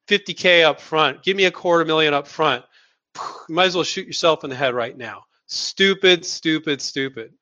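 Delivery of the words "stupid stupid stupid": exasperated triple stupid, trailing off; scolding repetition. Real, not acted. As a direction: scold it, letting it die away. Scolding rookie licensing move.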